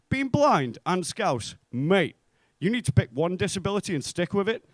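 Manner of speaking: cocky taunt. Retold or imitated. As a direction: land the insult with relish. Punchline to blind Scouser.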